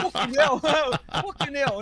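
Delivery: high, loud mock English accent; hammed-up English accent through laughter; attempted English accent. Host trying English swearing for laughs, bad English accent. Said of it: "to do an English accent".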